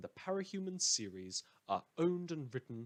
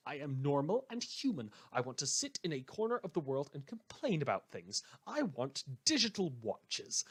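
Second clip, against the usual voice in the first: rising, louder and higher, insisting he is human; radio host losing composure on air, getting louder and higher; building agitated rant; 4 semitones higher, 4 dB louder than usual. Acted. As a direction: push harder with each claim until you're nearly shouting. Host's rising rant about being human.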